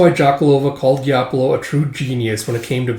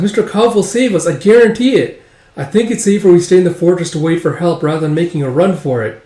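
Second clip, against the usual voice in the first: put-on higher-pitched young character voice; earnest girl; 4 semitones higher, 4 dB louder than usual. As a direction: insist on it in a raised, high voice. Girl reassures the others.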